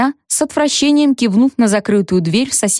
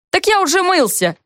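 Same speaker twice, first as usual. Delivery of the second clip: put-on whiny kid protest; 10 semitones higher than usual. Child protests going to bed.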